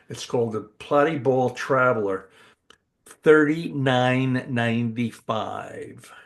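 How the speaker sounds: slow drawn-out pitchman price reveal; game show host. Acted. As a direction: sell it like a TV host. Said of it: "You sound like a game show".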